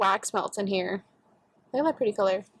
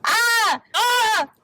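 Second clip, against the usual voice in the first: laughing, slow, higher and louder frustrated groan; laughing frustration; 11 semitones higher, 4 dB louder, much slower than usual. Real, not acted. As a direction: laugh through real annoyance. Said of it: "I'm so mad".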